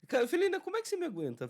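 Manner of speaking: high, loud laughing exclamation; excited. Real, not acted. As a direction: squeal it at your friend. Self-mocking plea to co-host.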